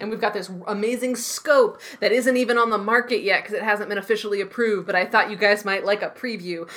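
lightly voiced gadget-master showing off gear; gadget presenter. Co-host joins the gadget-scene spoof, lightly voiced presenter. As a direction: present it like a hint of Q. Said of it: "James Bond Q scene".

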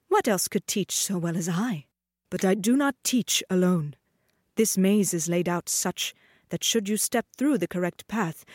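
a lightly voiced, proud dancing master. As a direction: boast of the maze grandly. Master explains the maze.

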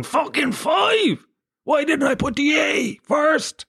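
high, drawn-out strangled wail; mock sleep-shouting. Disappointed Wordle player yelling in his sleep, mock anguished wail. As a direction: cry out in exaggerated anguish, stretching the words. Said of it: "hearing me in my sleep going".

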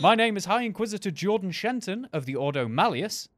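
spooky host voice. Acted. Grand in-character title.

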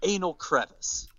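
deadpan translator. Retold or imitated. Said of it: "she looks at him and says".

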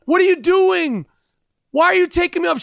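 high, mock-outraged passenger protesting; imitating a passenger arguing with marshals; indignant lady. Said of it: "she's, she's like".

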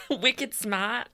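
mimicked Boston accent; New England accent. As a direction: echo it with a dropped New England R. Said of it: "is the O G British accent".

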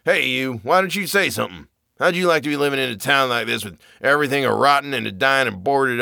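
put-on wild-eyed old sailor ranting, rising to a high crazed pitch; a mad old man pressing his tale on a stranger; old drunk Zadok. Zadok rants at narrator.

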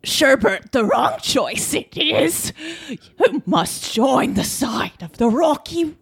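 lightly voiced Yoda, slow and backwards; a hint of Yoda insisting on rocky road. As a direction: reverse the word order like a wise old master. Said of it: "Now channel him".

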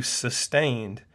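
SUSTAINED set off and stressed; emphasized word. Real, not acted. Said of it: "I emphasize the word sustained".

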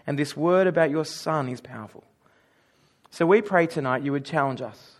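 low, measured praying voice; prayer. Real, not acted.

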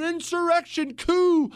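high-pitched imitation of panicked screaming; mock screaming. Host imitating people on the right screaming about the Capitol, high mock yell. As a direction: cry it out shrieky-high, mocking their panic. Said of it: "people on the right were screaming".

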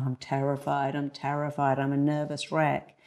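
anxious, dreading self-talk; the nervous speaker before going on stage. Shown as a demonstration. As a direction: say it like you expect to fail. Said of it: "No, you go".

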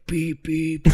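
beep imitation. Shown as a demonstration. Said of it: "it should go like".

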